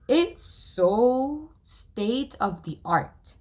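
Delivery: high, slow bragging drawl; boastful. Acted. Miles bragging to friends about sled, slow boast. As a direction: show off the fancy sled.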